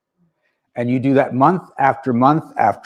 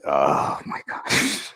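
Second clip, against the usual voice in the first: stunned realization; 9 semitones lower, 3 dB quieter, much slower than usual. Retold or imitated. Realizing the coach was right.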